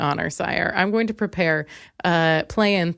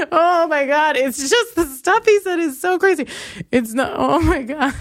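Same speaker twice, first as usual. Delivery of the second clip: higher, laughing oh my God; laughing disbelief; 6 semitones higher than usual. Real, not acted. Reacting to the ex's texts, laughing in disbelief.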